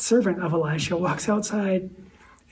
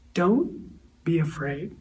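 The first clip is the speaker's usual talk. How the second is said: calm reassurance; much slower than usual. Acted. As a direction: say it slowly, like a steady hand on the shoulder. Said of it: "You can almost hear the calm in his voice".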